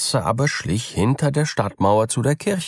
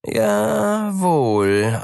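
high, mocking cat voice; sly cat; 13 semitones higher, 4 dB louder than usual. A narrator's reading. Cat answering the mouse, high and mocking. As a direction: answer with hidden spite. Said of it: "antwortete die Katze".

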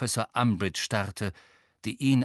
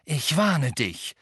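loud, slow, raised warning; firm threat at higher pitch; stern warning; 4 semitones higher, 5 dB louder, slower than usual. A narrator's reading. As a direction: warn firmly, stretching the words. Harry threatens the elf.

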